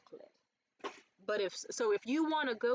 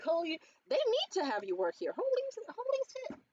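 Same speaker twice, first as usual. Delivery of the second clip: ecstatic; 9 semitones higher than usual. Retold or imitated. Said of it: "They were ecstatic".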